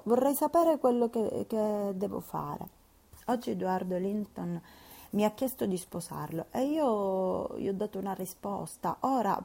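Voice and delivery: put-on a troubled young lady begging advice; earnest worried girl confiding; young Catherine, anxious. Catherine pleading, higher and louder.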